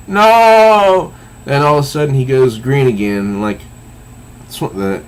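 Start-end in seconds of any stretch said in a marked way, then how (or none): 0.1-1.1 long, high, loud acted wail; anguished cry. He is turning green again, anguished cry. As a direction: cry out in dismay, drawn out.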